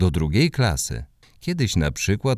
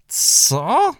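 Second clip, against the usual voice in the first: 1 shocked neighbour; 4 dB louder than usual. Acted.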